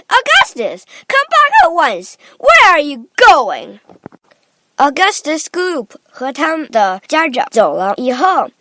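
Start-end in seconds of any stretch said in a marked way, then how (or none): 0.1-3.8 high, loud, frantic calling; Missus Gloop. A narrator's reading. Mother screaming after her vanishing son. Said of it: "screamed Missus Gloop".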